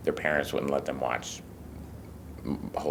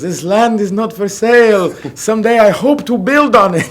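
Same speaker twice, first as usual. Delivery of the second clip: much higher, loud voice breaking into a laugh; proud landowner; 13 dB louder than usual. Retold or imitated. Father refuses to sell his clump of dirt, high and laughing. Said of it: "And he goes".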